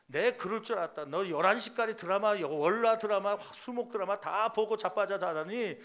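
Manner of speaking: hammed-up nagging mom lecture; nagging mother. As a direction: imitate a mother berating her kid. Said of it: "그러면서 그렇게 막 다그치죠".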